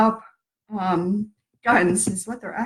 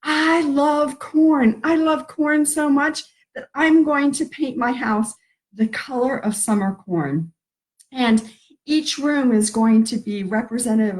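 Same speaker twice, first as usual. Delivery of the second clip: corn fanatic; 3 semitones higher than usual. Retold or imitated. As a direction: ham up a giddy corn devotee. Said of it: "some of us who are like".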